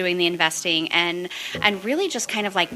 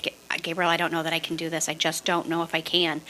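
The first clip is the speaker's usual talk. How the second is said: softer, defeated plea to her coach; confessing doubt in a small voice; despairing; 2 semitones lower, 6 dB quieter than usual. Retold or imitated. Telling coach Gabriel she can't, quiet despair. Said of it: "and I'm just like".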